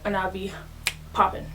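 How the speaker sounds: talking around a mouthful of foil; slightly muffled, foil over the teeth; tinfoil in mouth. Real, not acted. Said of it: "If I'm talking a little funny, it's 'cause I got tinfoil in my mouth".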